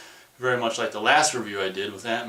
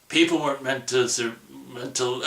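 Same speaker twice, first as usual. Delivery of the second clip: put-on New Zealand accent; 3 semitones higher than usual. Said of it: "that's my New Zealand accent".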